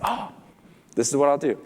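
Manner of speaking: mild "lightbulb moment" voice; as if an idea has just dawned; acted-out moment of inspiration; sudden realization. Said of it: "almost like a light came on".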